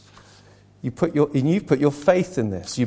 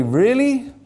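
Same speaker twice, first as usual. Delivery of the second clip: doubtful really; 9 semitones higher, 3 dB louder than usual. Pretend. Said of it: "some might say".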